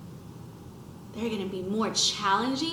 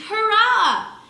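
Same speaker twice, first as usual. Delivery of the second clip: louder, higher hurrah; cheer; 8 semitones higher, 6 dB louder than usual. A narrator's reading. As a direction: cheer with joy. Cheering for the planet.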